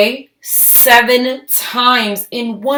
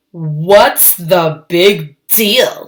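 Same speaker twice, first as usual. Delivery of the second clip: sulky; much slower than usual. Acted. Lily sulks at the party.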